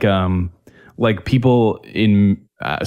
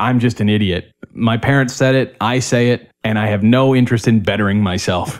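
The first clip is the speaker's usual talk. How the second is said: plain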